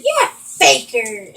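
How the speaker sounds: slow, mocking "Yeah, faker"; mocking dad. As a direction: drag it out like a sneering stepdad. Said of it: "and he said".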